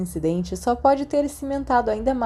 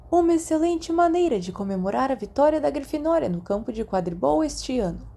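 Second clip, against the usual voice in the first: put-on a higher, proud old headmaster addressing the hall; headmaster's speech; 6 semitones higher than usual. A narrator's reading. Dumbledore addressing the students at the feast, proud and higher. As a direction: speak to the whole hall like a beaming headmaster.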